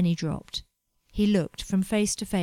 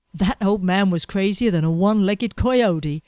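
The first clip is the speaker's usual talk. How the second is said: snorted; 6 dB louder than usual. Acted. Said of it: "T C J snorted".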